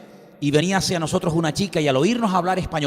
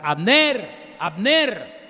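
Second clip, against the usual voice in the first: higher calling of the name Abner, falling at the end; David mock-calling to the sleeping general; 6 semitones higher, much slower than usual. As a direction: call across the camp to wake the guard. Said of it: "empieza a gritar".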